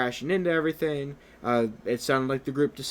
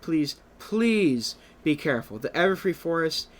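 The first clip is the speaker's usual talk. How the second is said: Twilight; 2 semitones higher than usual. Acted. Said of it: "Twilight's gonna sigh and go".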